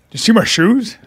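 lightly mimicked deep-voiced man; a hint of a booming bass, imitated; deep soul-singer voice. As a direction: put on a big man's voice for the retelling. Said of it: "the deepest soul-singer voice".

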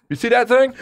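slow, rising mock old-timer voice; old man giving directions. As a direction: lightly play a vague old guy. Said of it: "you'll be out here".

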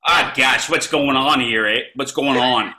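Canadian as rural American. Shown as a demonstration. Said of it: "Can I hear the accent".

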